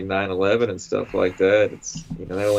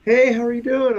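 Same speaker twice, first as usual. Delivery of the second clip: much higher, bright mock lady greeting; imitating the lady; 13 semitones higher, 3 dB louder than usual. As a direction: pitch the voice way up for the balcony lady. Voicing the lady on balcony.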